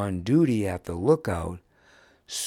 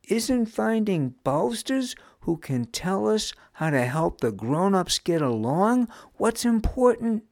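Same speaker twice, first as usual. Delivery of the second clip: insistent challenge; 12 semitones higher, 4 dB louder than usual. A narrator's reading. Nam, hands on hips, challenges others.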